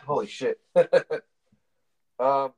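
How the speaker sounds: talking while blowing nose; speaking between nose blows. Real, not acted. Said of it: "I'm blurring my nose".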